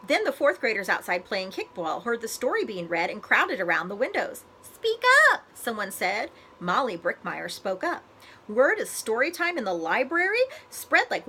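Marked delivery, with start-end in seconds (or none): 4.6-5.4 high, loud call to speak up. A narrator's reading. Child outside the window calling to the reader, loud. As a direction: shout it in from the windows.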